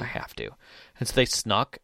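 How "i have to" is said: whisper. Retold or imitated. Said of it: "the player was just like".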